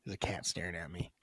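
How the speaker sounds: fast unvoiced whisper. Real, not acted. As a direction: whisper so the cat won't hear. Whispers aside about cat.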